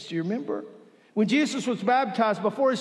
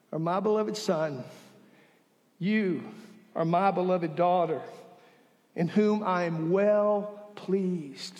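tender Father's voice; 3 semitones lower than usual. Acted. Father's voice spoken to listeners.

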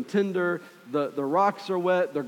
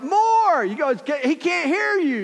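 high, loud sarcastic egging-on; mocking taunt; 10 semitones higher, 5 dB louder than usual. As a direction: goad the failing prophets, loudly mocking. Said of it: "he starts mocking them".

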